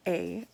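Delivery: A as the Canadian tag EH. Shown as a demonstration. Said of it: "we say".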